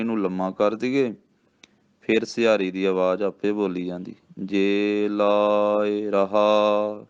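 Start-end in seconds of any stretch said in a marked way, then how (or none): 4.4-7.1 drawn-out chanted reading, each word stretched; slow devotional recitation with a held ਰਹਾ; slow gurbani recitation. Shown as a demonstration. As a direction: recite it slowly like scripture. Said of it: "ਇਹ ਰਹਾ ਹੀ ਬੋਲਣਾ ਹੈ".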